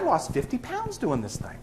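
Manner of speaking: man bragging. Retold or imitated. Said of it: "He said".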